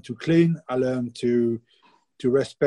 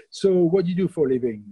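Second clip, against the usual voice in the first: lightly voiced posh Englishman, higher; a hint of upper-class small talk, pitched up; posh party guest; 5 semitones higher than usual. Posh guest asks the French baker about work, lightly mimicked, higher. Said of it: "so very posh".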